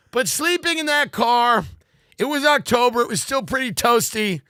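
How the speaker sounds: loud, rambling confession to the meeting; ranting resident. Pretend. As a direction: keep hammering the room with the story. Keeps the ranting resident character.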